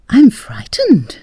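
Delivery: a lady clinging in the dark, voice catching; drawn-out trembling plea; frightened. A narrator's reading.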